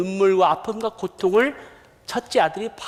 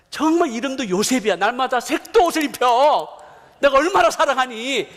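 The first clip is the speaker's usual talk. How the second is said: mock-exasperated dad, raised and insistent; indignant father's retort; 4 semitones higher than usual. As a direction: justify your love to a complaining son, acted. Imagined father's retort to angry son. (억울한 아버지처럼 높여 항변하는 연기)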